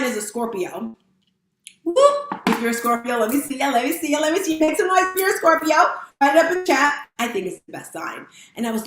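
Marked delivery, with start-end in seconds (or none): 1.8-2.4 very high cheering whoop; quick celebratory hoot; excited whoop. Real, not acted. Cheering for her star sign. 2.5-7.1 playful crowd-rousing chant, climbing higher; rally the crowd like a party host; rising, teasing shout-out; hype call. Pretend. Hype call to fellow Scorpios.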